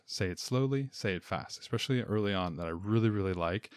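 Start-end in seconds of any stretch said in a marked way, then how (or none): 0.1-0.9 "say it slowly" said high and lingering, like a teacher; high, stretched teacher demo; high, drawn-out demo of slowly. Shown as a demonstration. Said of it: "this difference between say it". 0.9-1.6 quick, low teacher contrast; clipped, lower demo of fast. Shown as a demonstration. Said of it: "this difference between say it".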